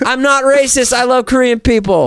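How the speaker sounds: high-pitched pleading denial; exaggerated self-defence; mock-defensive protest. Real, not acted. Mock-panicked denial after accent bit.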